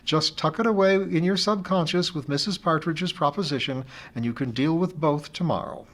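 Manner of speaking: a friend gently teasing her over the phone; friend Amy, fond teasing. Acted.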